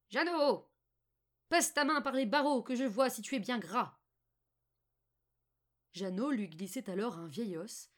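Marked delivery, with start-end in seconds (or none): 0.1-4.0 loud, high witch's call, easing off at the end; old woman's cry. A narrator's reading. Old woman shouting to Jeannot in the stable, loud cry. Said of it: "la vieille se pressait jusqu'à l'étable et criait".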